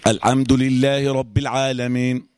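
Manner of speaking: slow recitation with the haa of "الحمد" lost; unclear haa. Shown as a demonstration. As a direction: let "الحمد" lose its airy haa. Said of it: "فين الحاء؟".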